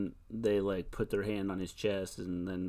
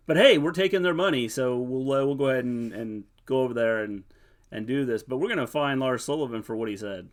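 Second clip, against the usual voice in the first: sarcastic; 2 semitones higher, 6 dB louder than usual. Retold or imitated. Sarcastic mock of WWE.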